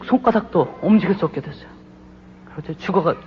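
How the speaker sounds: ordinary talk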